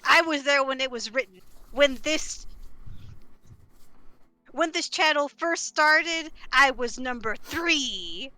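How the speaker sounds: loud, slow, insistent; insist, drawing it out; emphatic declaration. Real, not acted. Loudly claiming to be first.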